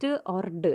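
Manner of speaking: hard t or d; plain stops in place of th; substituted sounds. Shown as a demonstration. Teacher showing sounds that replace th, hard t or d. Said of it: "might substitute it with".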